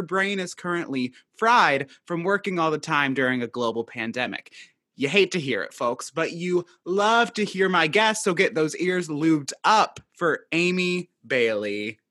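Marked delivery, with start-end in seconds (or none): 5.0-12.0 hype announcer intro. Pretend. Podcast host introducing the guest to listeners, hammed-up announcer. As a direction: play the showy emcee bringing on a guest.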